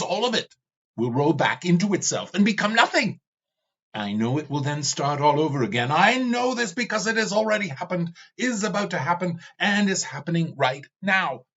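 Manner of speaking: glowering Ravana ranting to the skull. Acted. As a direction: brood and seethe over eternity. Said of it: "Ravana glowered".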